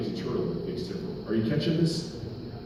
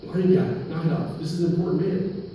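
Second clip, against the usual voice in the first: lightly acted crowd hushing someone, higher pitched; mock scolding shush, raised in pitch; 5 semitones higher than usual. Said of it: "like, shushing them".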